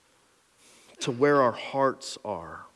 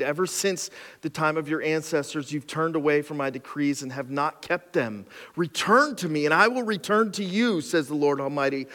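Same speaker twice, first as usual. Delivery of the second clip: scripture reading. Acted. Reads scripture aloud.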